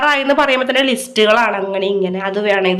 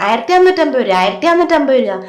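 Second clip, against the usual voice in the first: mock movie scolding; 2 semitones higher than usual. Wife mimicking the film scene to grumble about the snack bill, mock scolding. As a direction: bark the price out like the film character. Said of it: "വെട്ട സിനിമയിൽ പറയില്ലേ".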